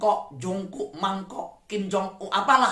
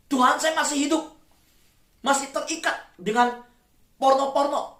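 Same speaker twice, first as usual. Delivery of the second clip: pleading prayer; 6 semitones higher than usual. Acted. Congregant confessing in prayer.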